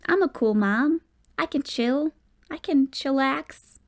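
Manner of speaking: hammed-up trendy bragging; playful slow chillax; mock cool mom. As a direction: act cool to tease son. Mom jokingly acting cool.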